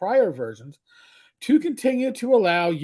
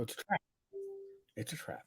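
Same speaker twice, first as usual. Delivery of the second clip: Admiral Ackbar quote; 8 semitones lower, 18 dB quieter, faster than usual. Retold or imitated. Quoting movie line.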